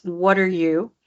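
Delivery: "What are you" tossed off low and light; unstressed function words. Shown as a demonstration. Coach showing function words to student, "What are you" unstressed. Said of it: "low in pitch, low in volume, and fast".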